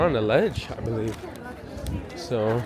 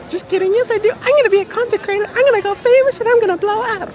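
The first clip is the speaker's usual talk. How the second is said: mock hype; 6 dB louder than usual. Self-mocking dream of fame.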